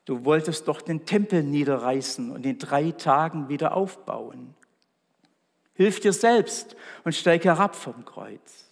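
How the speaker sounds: mocking passers-by, read with restrained scorn; scornful jeering. Passers-by taunt Jesus on the cross, scornful jeering. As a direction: jeer with a sharp opening and firm emphasis. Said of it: "riefen höhnisch".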